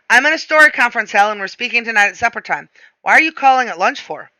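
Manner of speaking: busy husband fending off a call; irritated. Acted. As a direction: cut the caller short, a bit testy. Irritated husband cutting short wife's call.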